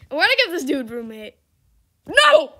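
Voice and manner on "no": sudden high yelp, much louder; panicked no. Real, not acted. Streamer yelping after banning someone by accident. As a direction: cry out in alarm.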